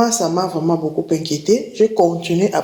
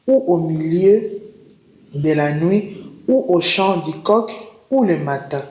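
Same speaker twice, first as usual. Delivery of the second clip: measured Bible reading with pauses between phrases; deliberate reading aloud of holy text; scripture reading. Acted. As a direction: read the verse out solemnly, phrase by phrase. Reads a Bible passage aloud.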